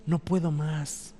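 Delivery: mild, slow, soft imitation of weeping; crying. Preacher voicing Jesus's anguish to the congregation, understated weeping. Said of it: "lo dijo llorando".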